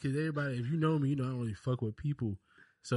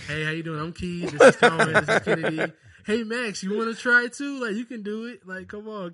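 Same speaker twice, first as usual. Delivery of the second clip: loud, high, overly hyped cheering; fake encouragement; 8 semitones higher, 13 dB louder than usual. Dad retelling how he cheered on the other kid, loud and high. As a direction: pump up the kid with fake enthusiasm. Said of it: "You gotta give him that fake laugh".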